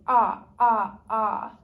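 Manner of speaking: loud open ahh; saying ahh. Shown as a demonstration. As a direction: sing out a strong ahh. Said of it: "I'm gonna have you go".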